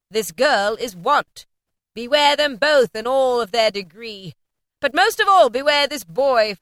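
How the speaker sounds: high, loud ghostly warning voice; echoing ethereal energy being. A narrator's reading. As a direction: warn like a solemn spirit. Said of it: "said the spirit".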